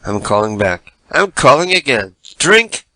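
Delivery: high, sugary put-on caller voice; sweet fake-friendly caller; prank caller voice.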